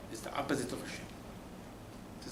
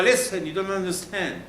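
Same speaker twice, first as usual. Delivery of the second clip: raised warning voice; 5 semitones higher, 4 dB louder than usual. Acted. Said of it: "Says the Torah".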